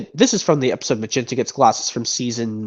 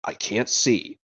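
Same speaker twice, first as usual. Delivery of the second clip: Han Solo impression; 3 semitones lower, 6 dB quieter, slower than usual. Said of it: "another impression from this movie".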